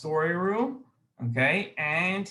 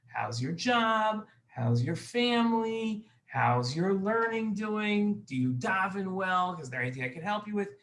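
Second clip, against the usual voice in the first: friendly chat; 4 semitones higher than usual. Retold or imitated. Aaron chatting kindly with Yosef.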